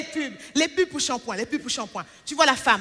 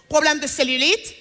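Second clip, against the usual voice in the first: lightly imitated commercial voice-over, questioning lift at the ends; a hint of TV-ad announcer. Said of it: "quand la voix off, elle dit".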